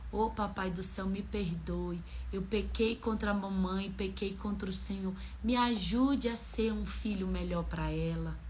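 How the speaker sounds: soft, gently imitated child praying; quietly re-voice a child's humble confession; retold child's prayer. Son asking God's forgiveness after the fight, retold soft prayer. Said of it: "aí depois ele foi orar".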